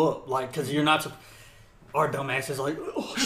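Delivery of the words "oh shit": high, small startled squeak; mock alarm. Recruit reacting to a money threat, mock alarm. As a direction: pitch up in comic dismay.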